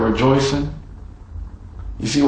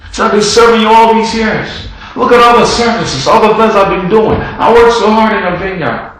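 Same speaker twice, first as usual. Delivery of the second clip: mild bitter complaint; 8 semitones higher, 6 dB louder than usual. Acted. Older brother's bitter complaint.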